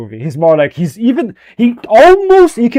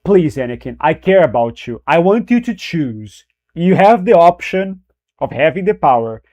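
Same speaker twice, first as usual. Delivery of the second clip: gentle pleading Sidious. Retold or imitated. Streamer imitates novel Sidious coaxing Anakin, mild pleading voice. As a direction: plead gently, like a kindly grandpa tempting him. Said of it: "novel Sidious was more like".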